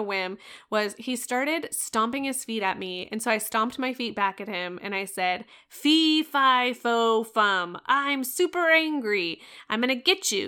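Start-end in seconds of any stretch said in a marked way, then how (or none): 5.7-10.5 mock-angry giant roar, half playing; playful giant voice. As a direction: boom it out like a storybook giant chasing a kid. Mom mimics giant at stomping son.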